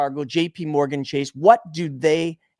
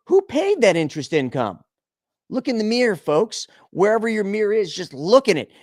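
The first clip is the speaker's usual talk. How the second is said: usual speaking voice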